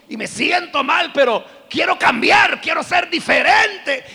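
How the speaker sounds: mock remorseful outcry, high and loud; hammed-up pleading confession; tearful confession.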